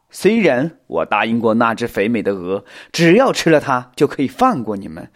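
loud, gloating villain taunt; menacing spider villain. Acted. Spider scolds those who woke it, menacingly. Spider threatens its trespassing snack.

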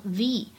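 "the" said as "thee"; strong form. Shown as a demonstration. Teacher showing "the" before a vowel, strong form. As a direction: give "the" its full long ee vowel. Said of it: "应该读成重读的形式".

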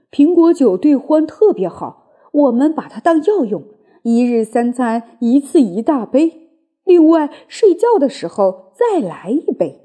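lightly voiced eager Badger; a touch of Badger, pleased and emphatic; Badger character voice. Badger prescribing cider as medicine, lightly voiced eager Badger.

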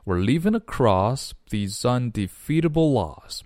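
"leaving across these undefeatable" run together; linked speech. Shown as a demonstration. Teacher demonstrates linking across the line, "these undefeatable" joined. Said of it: "连起来".

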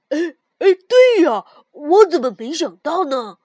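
loud eager exclamation; excited. A narrator's reading. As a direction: burst out in delight. Sudden realization, excited agreement.

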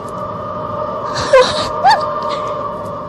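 high, breathy creepy laugh; sinister laugh. Acted. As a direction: laugh like a ghoulish doctor. Doctor laughs at the question.

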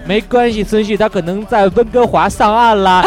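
慢悠悠带笑地说; 拖慢笑着说, 让人上火; 气人语调. Shown as a demonstration. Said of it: "你这也很气人的". (带笑慢说的气人腔)

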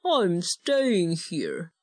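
slow, muffled under a blanket. Acted. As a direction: grumble it from under the covers. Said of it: "his muffled voice".

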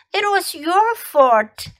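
high, slow accusing "your"; blaming. Shown as a demonstration. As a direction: point the finger with "your". Teacher drills phrase twice.

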